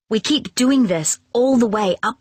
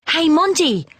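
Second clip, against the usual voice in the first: high called greeting; calling out; 8 semitones higher than usual. A narrator's reading. Danny calls out to runaway dog Monty, high and bright. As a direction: call across the street to the dog. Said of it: "calls Danny".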